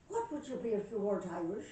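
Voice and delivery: loud Irish pub question; Irish accent. Acted. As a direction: ask it loudly in an Irish accent. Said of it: "I got me an Irish accent".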